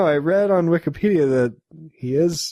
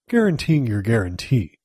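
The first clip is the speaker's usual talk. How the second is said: calm acting voice; 5 semitones lower than usual. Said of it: "he's like".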